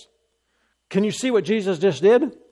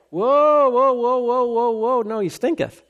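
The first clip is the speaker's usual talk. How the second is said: high, hammed-up whoa whoa; a comic high-pitched woman protesting; alarmed Martha; 6 semitones higher than usual. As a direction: squeal out the protest in mock panic. Replaying Jesus and Martha scene.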